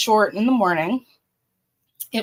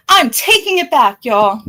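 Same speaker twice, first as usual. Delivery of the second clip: pulling a Shelly; 5 dB louder than usual. Pretend. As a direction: take it back like a dramatic flip-flopper. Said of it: "I'm gonna pull a Shelly right now".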